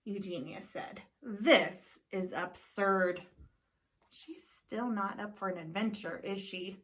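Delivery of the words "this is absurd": slow, scornful dismissal; disapproving. Acted. Neighbour disapproving of the pig, slow scorn. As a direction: drag it out with disdain.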